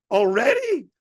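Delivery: high, loud startled cry; shocked "Already?". Retold or imitated. Comic retelling his shock at Sam's arrival, high and loud. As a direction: squeak it out in disbelief. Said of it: "I said".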